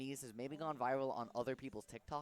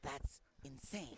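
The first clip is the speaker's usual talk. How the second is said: Snake impression; slower than usual. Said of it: "I do a Snake impression".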